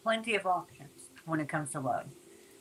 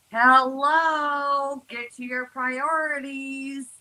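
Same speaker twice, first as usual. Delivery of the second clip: screaming priorities; 7 semitones higher, much slower than usual. Pretend. Tarot reader voicing Capricorn's priorities calling out to them, high and urgent. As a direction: play the urgent voice of neglected priorities. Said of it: "are screaming".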